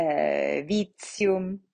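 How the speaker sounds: "Vitium" slowly, as veet-see-um; TI said as tsee. Shown as a demonstration. Teacher giving a Latin TI example, "Vitium" with tsee. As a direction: put a crisp ts in the middle of "Vitium". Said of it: "it is pronounced si".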